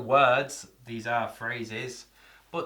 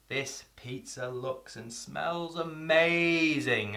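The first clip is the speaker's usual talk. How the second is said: savouring delight; 2 semitones higher, much slower than usual. Shown as a demonstration. Demo of feasting your eyes.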